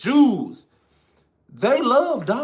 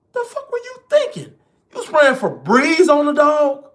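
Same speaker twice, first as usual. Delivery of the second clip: incredulous scold; 4 semitones higher than usual. Retold or imitated. Scolding the streamer.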